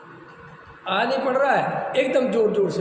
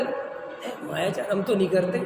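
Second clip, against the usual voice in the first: indignant denial; 5 semitones lower, 5 dB quieter than usual. Retold or imitated. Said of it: "अभी मैं आपसे कहूँ".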